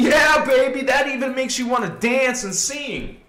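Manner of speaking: high, loud whoop of joy; exuberant cheer. Acted. Speaker celebrating unity to the holy ones, exuberant. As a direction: burst out laughing, ready to dance.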